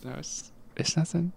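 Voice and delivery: amateur put-on Australian accent; attempted Australian accent. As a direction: try an Aussie accent. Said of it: "both trying to do Australian accents".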